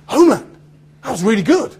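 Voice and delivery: it clicks all at once; surprised. Retold or imitated. To his agent on the phone, suddenly surprised. Realising the audition he forgot.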